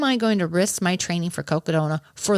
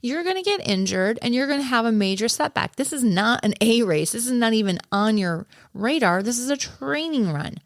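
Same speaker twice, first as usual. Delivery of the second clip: firm, raised coach voice, pitched higher; stern coach; 4 semitones higher than usual. Retold or imitated. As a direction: lay down the law to an eager athlete. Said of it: "I would have said".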